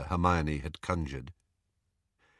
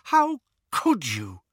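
high, dismayed reproach; wailing; 7 semitones higher than usual. A narrator's reading. Hermione reproaching Harry, wailing. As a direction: wail it as a pained reproach. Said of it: "wailed Hermione".

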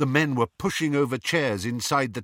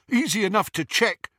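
cocky henchman; 12 semitones higher, 4 dB louder than usual. A narrator's reading. Scabior's voice.

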